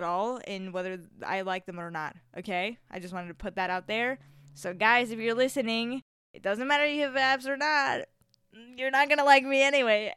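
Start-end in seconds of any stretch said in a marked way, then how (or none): 4.5-10.1 越说越激动; 兴奋地提高嗓门; excited. Real, not acted. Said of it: "I just got really excited right there".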